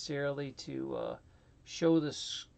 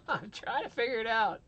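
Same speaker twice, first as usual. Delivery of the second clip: laughing through the words, a little higher and louder; 8 semitones higher, 6 dB louder than usual. Real, not acted. Streamer laughing to his chat while the stream setup fails. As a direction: chuckle your way through it, embarrassed.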